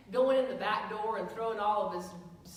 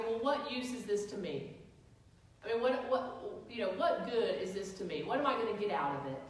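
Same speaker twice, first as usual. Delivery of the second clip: skeptical asking; 2 semitones lower than usual. Retold or imitated. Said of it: "we're always sort of asking".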